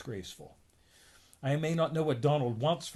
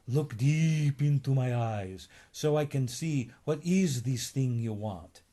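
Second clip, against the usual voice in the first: slow, intoning mystic stare; hypnotist voice. Acted. Fortune teller peering into a customer's eyes, hypnotic. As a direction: lure them in like a stage mesmerist.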